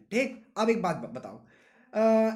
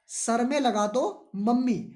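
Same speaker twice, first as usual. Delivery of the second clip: put-on pleading child; 2 semitones higher, 3 dB louder, much slower than usual. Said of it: "क्या कहा".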